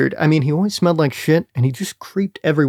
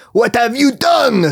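mock scream; 6 semitones higher, slower than usual. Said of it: "screamed Micah".

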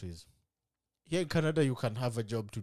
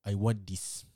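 put-on ordering in an African accent; lightly put-on African accent; 4 semitones lower, slower than usual. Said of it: "With my original African accent".

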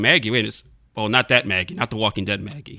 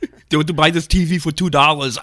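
put-on louder Austrian accent as Arnold; hammed-up Austrian Arnold sales pitch; Arnold impression; 4 semitones higher, 4 dB louder than usual. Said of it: "yours is really good".

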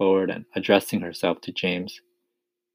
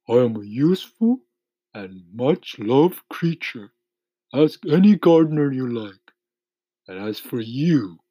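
mildly raised, offended earthworm voice; indignant earthworm; 6 semitones higher, 4 dB louder than usual. A narrator's reading. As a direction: defend yourself as a storybook earthworm.

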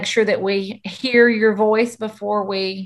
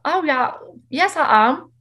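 higher-pitched, badly faked British accent; mock British accent; 5 semitones higher than usual. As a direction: put on a playful, shaky-footed British accent. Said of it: "You're not British".

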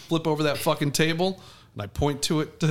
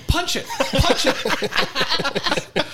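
high, loud urgent shout; yelling; 12 semitones higher, 5 dB louder, much slower than usual. Retold or imitated. Yelling at a friend to hit the spider, high and frantic. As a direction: yell it like an urgent command, pitch way up. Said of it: "I start yelling".

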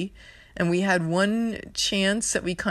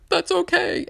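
high excited reassurance; 14 semitones higher, 4 dB louder than usual. Retold or imitated. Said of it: "I'm like".

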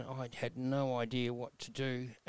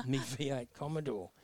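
laughing. Real, not acted. Laughing about his car.

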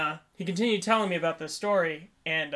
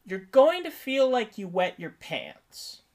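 imitated nurse; 2 semitones higher, slower than usual. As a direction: play a nurse spelling out a warning slowly. Nurse warns him before medication.

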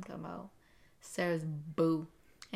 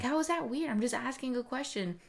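retold protest; 6 semitones higher than usual.

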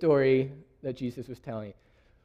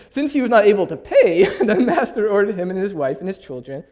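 louder, laughing while reading the verse; reading through laughter; 5 semitones higher, 9 dB louder than usual. Real, not acted. Preacher amused by the huge debt, laughing through the reading. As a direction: let the laugh break into the words. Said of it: "Yeah, exactly".

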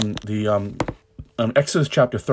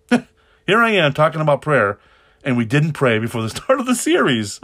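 laughing at himself; 5 semitones higher, 5 dB louder than usual. Real, not acted. Laughs at forgetting to pray.

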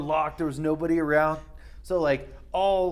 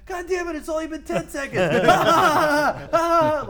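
stoned amazement; 13 semitones higher, 9 dB louder than usual. Retold or imitated. Friends checking the microwave timer, high cackling disbelief. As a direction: squeak it out, then cackle. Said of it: "be like".

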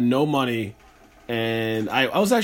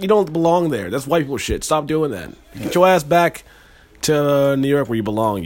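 scolding hood mom; 3 semitones higher, 5 dB louder than usual. Acted. Host voices his mom scolding him over Vegas, mock-stern. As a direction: play a tough mom ordering her kid home. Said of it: "She's from the hood".

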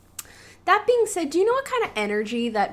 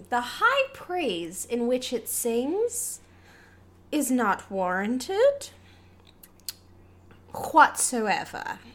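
very slow, measured pronouncement; mock-formal verdict; much slower than usual. Co-host disputing the glowing review, ponderously formal. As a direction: weigh out each phrase with big pauses.

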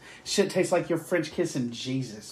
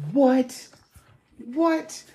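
mock disbelief; 9 semitones higher than usual. Disbelief at duck confit nachos.

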